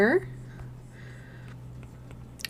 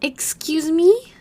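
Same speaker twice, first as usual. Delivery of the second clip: high, drawn-out, rising question; stunned disbelief; 7 semitones higher, 5 dB louder, slower than usual. Real, not acted. Streamer reacting to a viewer's big donation, stunned disbelief. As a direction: stretch it out high in real astonishment.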